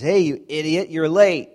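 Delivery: loud, sharp mock insult; rude shout. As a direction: bark it like a rude coworker. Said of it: "then someone says".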